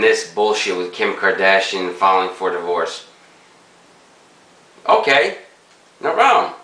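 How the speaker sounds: talking around pipe stem; pipe in mouth. Real, not acted. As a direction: lips clenched on pipe. Seen 0: Pipe stem clenched between lips through nearly all labelled words.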